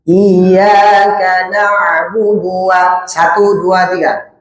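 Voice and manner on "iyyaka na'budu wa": drawn-out tajwid chant; slow Quranic recitation. Shown as a demonstration. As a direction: recite slowly, stretching each syllable. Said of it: "teacher demonstrates recitation". (bacaan Quran yang lambat dan panjang)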